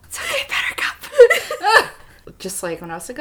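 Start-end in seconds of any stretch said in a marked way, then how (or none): 0.0-1.9 mock comforting. Playful comforting quote.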